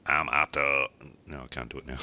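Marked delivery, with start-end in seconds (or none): 0.0-0.9 half-hearted cartoon bus-driver impression; lightly voiced cartoon bus driver; Otto. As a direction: attempt a cartoon stoner, not quite landing. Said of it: "I'm pretty good at doing the Otto".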